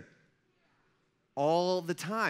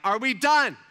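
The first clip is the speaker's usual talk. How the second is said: loud, raised challenge; sharp, louder confrontation; retold angry demand; 6 semitones higher, 9 dB louder than usual. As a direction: demand it from on top of him.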